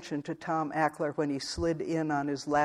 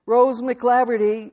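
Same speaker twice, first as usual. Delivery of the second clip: much louder and slow, pressing the name; loud announcement; 8 semitones higher, 11 dB louder than usual. Acted. Man loudly repeating the dead woman's name to the girl. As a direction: make them listen at last. Telling the news again, ignored.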